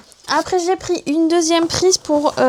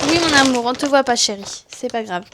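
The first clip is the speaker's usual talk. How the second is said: reassuring mother. Real, not acted. Mother telling her child it's no big deal, reassuring.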